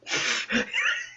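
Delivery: breathy whoosh of a punch; imitated fist noise. Gamer imitates Doom Guy's fist smashing, noisy sound effect. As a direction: mimic a smash with mouth noise. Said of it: "fist goes like".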